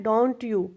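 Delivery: don't you stressed with a lift; rising tag tune. Shown as a demonstration. Teacher repeats the tag to show where it rises. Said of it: "don't you पे ही आपने rising करनी है".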